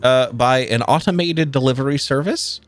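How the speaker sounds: lightly voiced captain reading rote; rote and dry. Captain reads the parchment to the crew, rote and dry. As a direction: drone through it like a dull official notice. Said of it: "reading from it in a very rote and dry manner".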